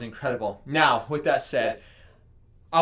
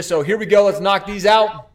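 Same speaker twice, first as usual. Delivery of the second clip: hyped up; 6 semitones higher, 10 dB louder than usual. Real, not acted. Hyped up before push-ups.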